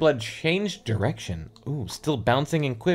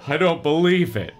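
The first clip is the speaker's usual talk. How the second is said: shocked cry; 4 semitones higher, 5 dB louder than usual. Acted. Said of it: "Andy cried".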